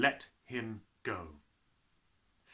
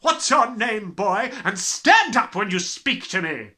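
loud, higher tirade; furious headmistress; 9 semitones higher, 12 dB louder than usual. Acted. Headmistress raging at the cheeky boy. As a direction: roar the insults. Trunchbull voice.

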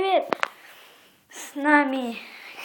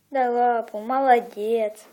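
praising a dog; 4 semitones lower, slower than usual. Real, not acted. Praising dog after paw.

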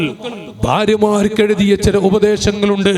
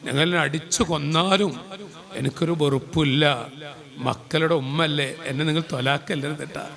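quiet pleading wife; 6 semitones lower, 9 dB quieter than usual. Retold or imitated. Wife's plea, retold.

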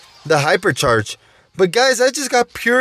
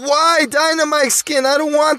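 annoyed complaint; 5 semitones higher than usual. Real, not acted. Unwanted skin from the box.

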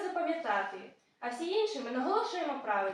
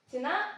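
Ціна stressed on the final НА; stress on second syllable. Shown as a demonstration. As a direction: land the weight on the last syllable of Ціна. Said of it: "наголос на другому складі". (наголос на другому складі: «Ціна»)

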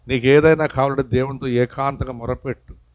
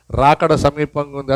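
slow solemn line; 2 semitones lower than usual. Shown as a demonstration. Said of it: "అందుకు చెప్పండి".

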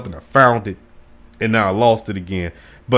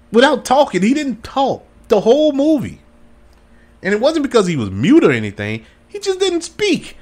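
excited rant; 9 semitones higher than usual. Real, not acted. Excited rant about silent Cage film.

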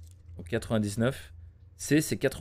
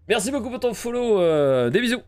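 high cutesy voice; 8 semitones higher, 4 dB louder than usual. Real, not acted. Thanking a new follower.

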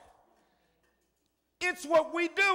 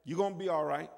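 calm God; 7 semitones lower, 4 dB quieter than usual. Retold or imitated. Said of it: "it's like God say".

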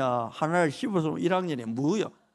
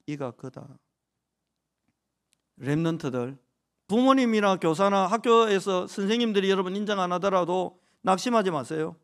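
ordinary delivery

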